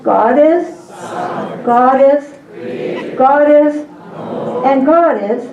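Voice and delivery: lively classroom cue; cheerful prompting call. Shown as a demonstration. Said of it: "say him nice and loud".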